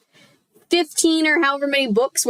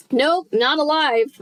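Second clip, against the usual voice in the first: higher, slow gleeful call; gleeful re-read; 6 semitones higher, slower than usual. Shown as a demonstration. Reader redoing a gleeful line, slow and high. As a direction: sing it out with glee, slowly. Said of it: "I guess is how she said it".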